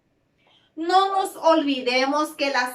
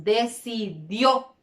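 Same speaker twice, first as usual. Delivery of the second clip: decidió split up, weight on the final DIÓ; stress on the last syllable; 4 semitones lower, 4 dB quieter, slower than usual. Shown as a demonstration. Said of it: "cargo con mayor intensidad la voz".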